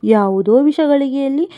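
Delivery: tearful plea. Acted. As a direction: beg forgiveness, close to crying. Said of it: "ಕಣ್ಣೀರಿಡುತ್ತಿದ್ದ ಸೊಸೆಯ".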